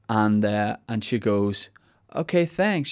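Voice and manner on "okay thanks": higher-pitched imitated American woman; lightly put-on American accent. American lady thanking him for directions, imitated American accent. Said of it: "in her American accent".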